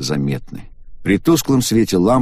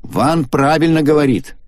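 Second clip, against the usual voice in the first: женский голос повыше; уверенно высказывает мнение; Агата говорит; 8 semitones higher, 3 dB louder than usual. A narrator's reading. (Агата высказывает своё мнение)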